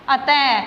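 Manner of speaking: अतः ending in an audible "ha"; visarga as H. Shown as a demonstration. Teacher giving a second example, अतः with final "ha". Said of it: "है की ध्वनि आ रही है".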